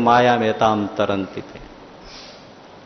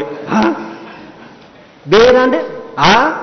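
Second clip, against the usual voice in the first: startled exclaim; 8 semitones higher, slower than usual. Acted. Maharaj startled by answer.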